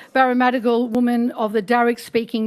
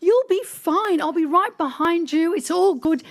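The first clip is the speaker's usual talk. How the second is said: higher-pitched, encouraging reassurance; reassuring; 6 semitones higher than usual. Retold or imitated. Producer to terrified journalist before interview, reassuring. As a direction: buck up a nervous colleague. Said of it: "she was so nervous and terrified".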